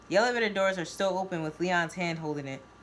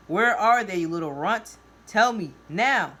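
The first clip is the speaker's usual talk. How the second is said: loud, furious interrogation; erupt, hitting the demands hard; angry eruption; 7 dB louder than usual. A narrator's reading. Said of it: "all I can hear are Leon's eruptions".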